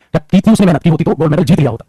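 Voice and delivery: mildly aggressive, emphatic reproach; demonstrated aggression. Shown as a demonstration. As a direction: push the rebuke a little, as a demonstration. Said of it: "और ज्यादा aggression, और ज्यादा emphasising भी दिखाना हो". (हल्की दिखावटी आक्रामकता, ज़ोर देकर)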